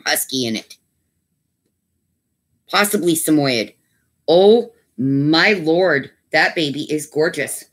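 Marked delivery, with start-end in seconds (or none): 4.3-7.6 slow, drawn-out gushing. Real, not acted. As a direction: melt over a cute puppy. Gushing over a puppy.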